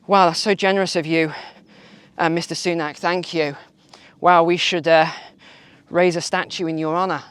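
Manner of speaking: dripping with sarcasm; mock praise, heavy irony; sarcastic. Real, not acted. Mocking the politician's fuel cut.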